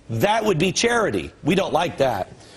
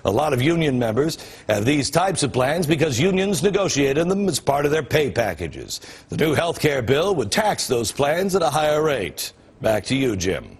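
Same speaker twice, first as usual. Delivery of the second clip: boring news anchor. Shown as a demonstration. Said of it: "The way most cable news shows would explain it".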